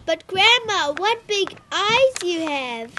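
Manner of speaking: put-on high, loud, drawn-out child's wonder; uncertain little girl. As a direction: marvel uncertainly at Grandma. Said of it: "said Little Red uncertainly".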